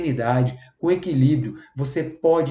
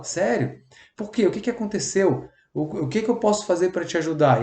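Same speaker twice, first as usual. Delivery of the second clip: caring questions. Shown as a demonstration.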